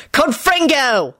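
high, drawn-out spell shout. A narrator's reading. Lupin blasts Scully, shouting the spell. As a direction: cry out the spell. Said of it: "Lupin shouted".

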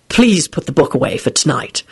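long-suffering. Acted. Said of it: "in a long-suffering voice".

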